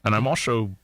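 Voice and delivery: low, deadpan Scottish actor; Sean Connery. Shown as a demonstration. Playing the late actor for co-hosts, low Scottish impression. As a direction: state it in a low Scottish burr. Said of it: "I'm Sean Connery".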